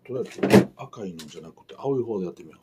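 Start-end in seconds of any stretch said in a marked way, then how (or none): 0.0-0.7 sudden very high exclaim; a sudden high squeak of a word. Real, not acted.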